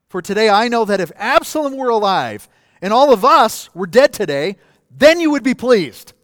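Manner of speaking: loud, high-pitched scolding read from scripture; forceful rebuke. Acted. Preacher voices Joab scolding King David, loud forceful rebuke.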